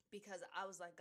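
ordinary delivery

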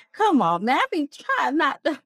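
high, loud, touched protest; emotional protest. Real, not acted. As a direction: plead playfully, pitch jumping way up. Touched by cousin's praise, protests.

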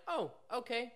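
high fake sympathetic oh; mock sympathy. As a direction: play it falsely sympathetic.

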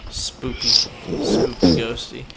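slow breathy spooky whisper; spooky ghost voice. Pretend. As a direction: draw it out like a campfire ghost. Joking about a scary ghost.

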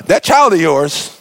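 put-on slow, pointed "That child of yours", stress on "child"; the parent's cold jab to the spouse. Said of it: "your mama, your daddy told the other one".

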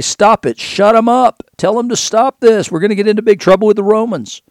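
high, loud, fast panicked order; alarmed leaders. Retold or imitated. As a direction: hush them up before Rome hears. Leaders silencing Jesus' followers.

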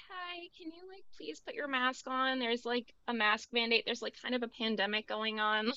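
mock-nice cashier voice, syrupy; hammed-up customer-service sweetness; fake sweet politeness. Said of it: "I'm not just being like".

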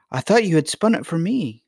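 high-pitched, upset protest; dismayed child. A narrator's reading. Princess thought grandmother spun it for her, dismayed. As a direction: protest like a let-down little girl.

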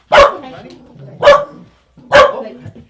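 loud sharp "Okay... Good"; loud command. Real, not acted. Trainer raising her voice over a barking dog. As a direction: cut through the barking.

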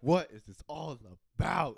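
high, loud theatrical question; mock alarmed character. Comedian plays someone demanding to know what is happening, theatrical. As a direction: demand answers in a put-on voice. Continuing guard-calling character.

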